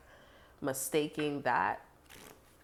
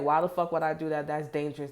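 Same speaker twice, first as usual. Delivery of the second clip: louder, half-laughing disbelief; mock incredulous shout; 5 dB louder than usual. Someone scoffing at a risky plan, loud and mocking. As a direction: bark it like the idea is insane. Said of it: "they like".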